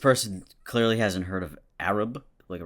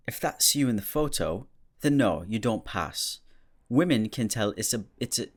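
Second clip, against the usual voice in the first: badly faked British accent, pitched up a little; 2 semitones higher than usual. Shown as a demonstration. Reading a British person's reply, in a bad British accent. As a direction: attempt a shaky-quality amateur British accent. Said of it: "Maybe I should read it in my British accent".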